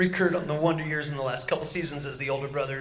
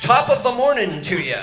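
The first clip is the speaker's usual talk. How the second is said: cheesy mock Irish accent, louder; bad Irish accent; 4 semitones higher, 6 dB louder than usual. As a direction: ham up a stage Irish accent. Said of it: "Here's my Irish".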